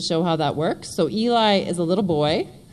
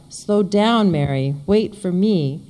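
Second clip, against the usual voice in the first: yell; 4 dB louder, slower than usual. Acted. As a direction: call out loudly up the trail. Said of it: "and then I yell".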